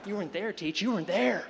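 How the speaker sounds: put-on haunted veteran kid.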